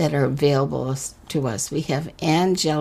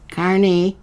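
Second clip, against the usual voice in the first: calling; 3 semitones higher, 6 dB louder than usual. Acted. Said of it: "he called again".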